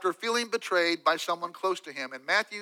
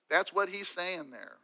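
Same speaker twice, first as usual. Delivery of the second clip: softer and slower, letting it sink in; soft slow restatement; 6 dB quieter, slower than usual. Real, not acted. Preacher repeats the point to listeners, soft and slow. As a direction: pull back and let the words settle.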